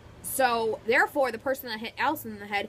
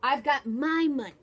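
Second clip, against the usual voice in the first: indignant; 3 semitones higher, 4 dB louder than usual. Real, not acted. Indignant about money.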